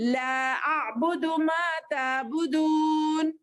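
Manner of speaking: slow recited verse, vowels stretched; verse recitation. Shown as a demonstration. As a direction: recite it as the full ayah. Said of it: "आयत करेंगे तो". (धीमी तिलावत में आयत)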